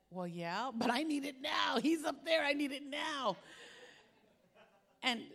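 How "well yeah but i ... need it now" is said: insistent pleading. Retold or imitated. Retold insisting reply to friend.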